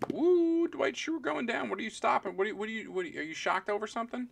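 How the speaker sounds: high, excited whoop and teasing. Real, not acted. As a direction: shout it up high like a big win.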